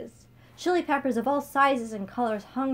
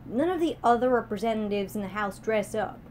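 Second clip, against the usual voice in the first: complaining; 3 dB louder than usual. Acted. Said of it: "she complained".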